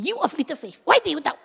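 quick, mock-angry rebuke rising in pitch; angry scolding. Jesus angry with fallen Peter, mild scolding. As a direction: scold with a touch of anger. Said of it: "and then he get angry with you".

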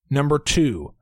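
drawn out slowly; slow dramatic. Acted. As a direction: stretch each word out for effect. Dramatic joke ranking.

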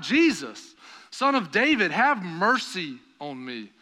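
crying out. Acted. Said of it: "And he cried out".

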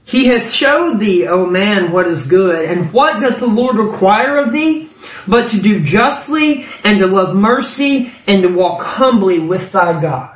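"what doth the Lord require" lifted high as a question; posed as a question. Acted. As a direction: ask "require of thee", then answer in measured phrases down to "thy God". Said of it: "He said it as a question".

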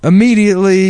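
Steve Harvey impression. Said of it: "he's like".

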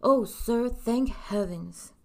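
mildly distressed, drawn-out relief; acted fretful plea. A narrator's reading. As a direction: cry out with a touch of distress, then draw it out slowly. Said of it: "sounding distressed".

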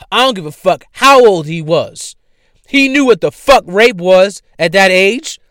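loud, high, heated outburst at the listeners; angry rant. Real, not acted. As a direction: rage at it, voice up and hard. Angry rant about a rapist.

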